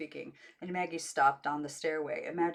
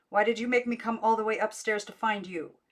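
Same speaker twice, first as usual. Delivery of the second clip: out of breath; 4 semitones higher, 7 dB louder than usual. A narrator's reading. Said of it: "out of breath, little spurts".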